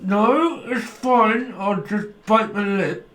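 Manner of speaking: mock brave face. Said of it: "you're like".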